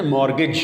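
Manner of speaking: مارگیج as "MOR-gij", no t heard; correct pronunciation. Shown as a demonstration. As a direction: say مارگیج with the t silent. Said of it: "اس سے ہی pronunciation ہے".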